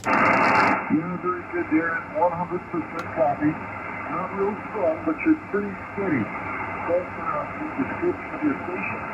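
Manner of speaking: distant voice through a ham radio; fading shortwave radio. Real, not acted. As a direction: sound like you're on shortwave. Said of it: "a lot of Q S B on you".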